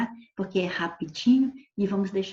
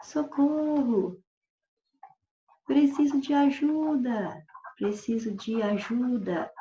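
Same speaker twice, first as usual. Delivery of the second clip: mock cry for help; 4 semitones higher, slower than usual. Shown as a demonstration. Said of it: "se eu falar".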